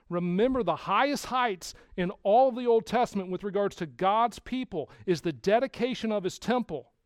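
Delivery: preaching at full force. Acted. Pastor pressing the congregation through Solomon's fall, full-force preaching. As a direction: drive the story home to the pews.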